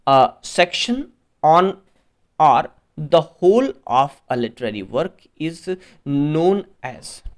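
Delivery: slow, deliberate read-aloud with pauses; question read-out. Real, not acted. Teacher reading an exam question to students, slow and deliberate. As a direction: read it out phrase by phrase, slowly.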